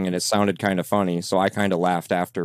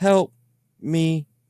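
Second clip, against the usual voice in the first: put-on small, high, childlike little girl voice; 9 semitones higher than usual. Describing what came from the ghost box, the speaker imitates it: little girl voice. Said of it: "sounded like a little girl going".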